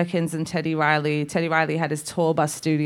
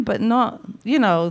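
normal talking voice

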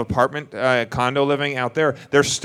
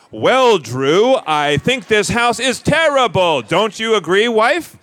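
higher, slower, stagey overacting; hammy stiff actor; 7 semitones higher, much slower than usual. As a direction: ham it up like a bad TV homeowner. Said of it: "super acting".

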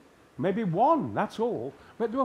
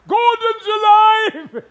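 booming shout; 16 dB louder than usual. Real, not acted. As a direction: roar it high and huge in the cabinet room. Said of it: "Please say it".

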